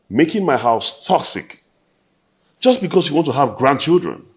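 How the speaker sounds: resentful son snapping at mom; angry outburst. Acted. Son confronts his nagging mother.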